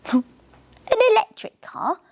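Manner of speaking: high, puzzled question. Acted. Riley puzzled by electric cars, high questioning tone. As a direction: sound baffled by the idea. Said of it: "in a questioning tone".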